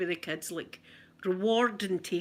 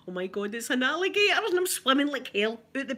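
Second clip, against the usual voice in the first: mild alarm; 5 semitones higher than usual. Retold or imitated. Retold panic in the pool.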